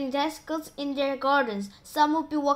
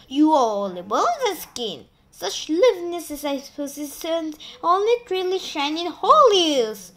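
higher, louder vain declaration; declaring; 4 semitones higher, 5 dB louder than usual. Acted. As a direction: proclaim with pompous pride. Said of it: "and Sponge declared".

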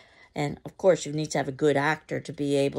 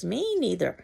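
fast, higher eager agreement; vigorous; 4 semitones higher, 5 dB louder than usual. Acted. Mrs. Johnson eagerly agreeing with Mama, vigorous. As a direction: rush to agree. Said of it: "Johnson vigorously says".

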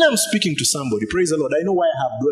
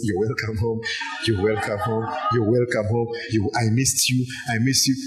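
lightly voiced screen calling someone home; a low, coaxing welcome, lightly acted; beckoning Netflix; 4 semitones lower than usual. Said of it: "my Netflix is just saying".

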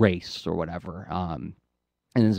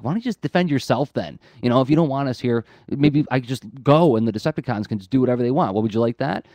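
mildly exasperated retort, a little raised; retold temper loss; 2 semitones higher than usual. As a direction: play at snapping back at ungrateful critics. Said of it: "he's losing his temper".

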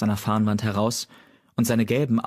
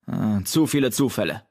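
barked. A narrator's reading. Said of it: "blaffte Wiepernzahn".

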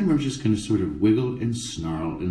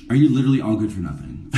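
mock scolding; 3 dB louder, faster than usual. Scolding crew.

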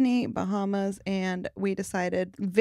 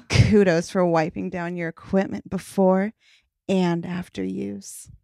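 sexy voice; 3 dB louder than usual. Pretend. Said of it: "do it in your sexiest voice".

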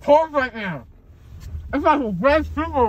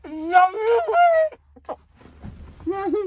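high teary cry; crying out, drugged after surgery; groggy from anesthesia; 10 semitones higher, much slower than usual. Real, not acted. Drugged, gauze in mouth.

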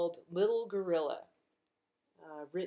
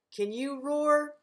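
higher, louder, slow coaxing question; playful invitation; 7 semitones higher, 7 dB louder, slower than usual. Acted. Librarian asking kids, high and eager. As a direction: coax the kids to join in.

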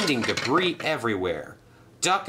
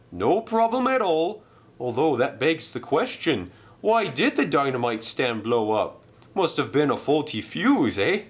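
higher, breezy voice; Bert, casual engine; 4 semitones higher than usual. Acted. Bert tells Duck about the blast, breezy. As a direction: shrug off the explosion lightly.

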